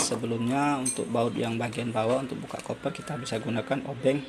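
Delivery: ordinary delivery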